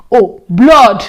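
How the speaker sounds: "blood" whispered, breath dropping; whispered realisation. Retold or imitated. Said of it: "I'm like".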